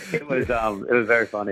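ordinary talk

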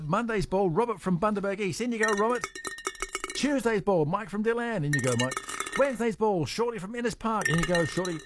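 lilting radio roll call of contestants; prize-draw announcer. Real, not acted. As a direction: call each entry in like a game host. Calls out the raffle entries.

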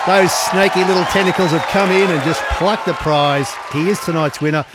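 loud, thrilled announcer call; excited shout. Real, not acted. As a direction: shout the win with delight. Quiz winner announced live.

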